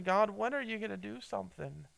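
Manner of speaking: imitating an anxious plea. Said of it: "he's really asking that question".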